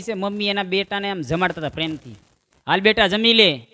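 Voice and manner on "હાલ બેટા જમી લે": louder coaxing call; mother coaxing. Acted. Mother coaxing her son to eat, calling out.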